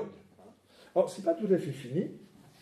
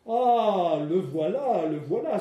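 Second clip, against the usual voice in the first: a touch of excited crying out, a bit louder; mock exclamation; 4 dB louder, much slower than usual. Teacher reading the critic finding painting, mildly exclaiming. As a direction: read the critic's cry with mild glee. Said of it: "s'écria-t-il".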